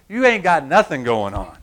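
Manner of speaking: lightly Southern put-down; Southern accent. Pretend. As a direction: slip into Southern for emphasis. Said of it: "I'm going Southern now".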